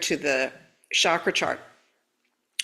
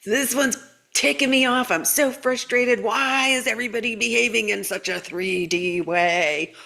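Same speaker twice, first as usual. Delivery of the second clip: higher, whiny frustrated complaint; mock frustrated client; 3 semitones higher than usual. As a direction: play a fed-up client griping. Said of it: "got so many messages, even from clients".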